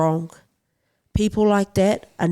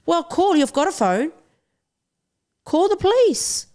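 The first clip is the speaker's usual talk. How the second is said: higher-pitched, urgent demand; exasperated outburst; 8 semitones higher than usual. Real, not acted. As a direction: throw up your hands at bystanders who did nothing. Exasperated appeal to bystanders.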